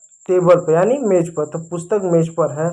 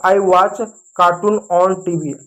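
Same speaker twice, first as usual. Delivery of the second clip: slow model sentence; much slower than usual. Shown as a demonstration. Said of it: "तो इसका क्या अंग्रेजी होगा?".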